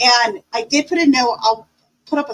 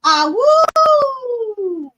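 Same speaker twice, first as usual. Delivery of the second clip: wolf voice; 9 semitones higher, 3 dB louder than usual. Pretend. Full moon live, howling together.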